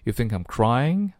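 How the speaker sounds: "I'm" very weak, "crying" rising; very light I. Shown as a demonstration. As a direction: slip over "I'm" and lean into "crying". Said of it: "非常轻".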